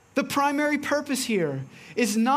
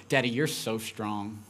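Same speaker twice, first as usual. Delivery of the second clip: daughter's praise; 10 semitones lower, 5 dB quieter than usual. Retold or imitated. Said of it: "and she responds".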